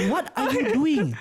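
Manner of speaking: slow, high-pitched mock yell, half laughing; retold scolding yell. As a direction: stretch out an exasperated telling-off. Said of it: "started screaming at his face".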